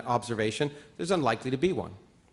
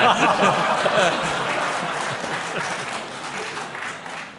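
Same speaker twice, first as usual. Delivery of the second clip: a long breathy laugh; 3 semitones higher than usual. Real, not acted. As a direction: laugh it off at length. Laughs at the book praise.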